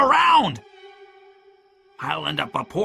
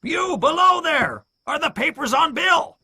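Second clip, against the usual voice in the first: Pew's cry. A narrator's reading. Blind pirate to men on the first floor, shouting. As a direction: yell across to men on another floor. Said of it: "Pew cried to the men".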